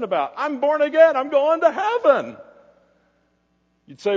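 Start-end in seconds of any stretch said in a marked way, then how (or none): 0.4-2.4 mock smug believer. Mocking complacent churchgoers.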